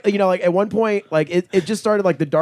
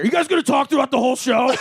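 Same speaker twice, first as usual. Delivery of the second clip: annoyed; 6 semitones higher, faster than usual. Retold or imitated. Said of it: "got mad at us".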